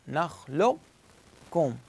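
very slow nakhluq-kum, long stop on q; qaf without qalqala. Shown as a demonstration. Teacher repeating the correct reading, qaf held very slowly. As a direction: hold the q without letting it rebound. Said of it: "ما أقلقله".

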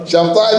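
"شمطائي" ending in an i vowel; kasra ending. Shown as a demonstration. Teacher correcting a student's case ending, "شمطائي" closed on an i. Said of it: "بالكسر شيخي".

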